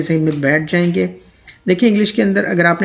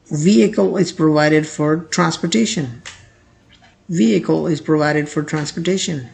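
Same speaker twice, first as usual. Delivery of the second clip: very slow, clear example; slow model sentence; much slower than usual. Shown as a demonstration. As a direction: read it slowly for learners. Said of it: "example read slowly twice". (धीमा उदाहरण वाक्य)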